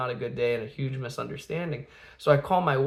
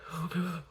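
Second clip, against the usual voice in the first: tearful gasp; 4 semitones higher, 9 dB quieter than usual. Retold or imitated. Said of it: "she's, like, crying".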